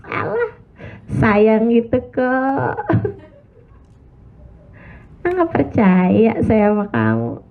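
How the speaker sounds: slow, drawn-out teasing brush-off with a laugh; a lightly played wife, not buying the sweet talk; mock dismissive. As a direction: shrug it off in a playful, disbelieving drawl. Acting wife's dismissive inner reply.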